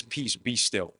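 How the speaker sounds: calm command. Acted. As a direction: say it low-key, stilling the waves. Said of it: "and he's calm".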